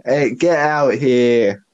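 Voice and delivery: slow, drawn-out New York accent attempt. Co-host losing the accent, attempted New York accent. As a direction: stretch it like a would-be New Yorker. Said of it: "I'm losing it".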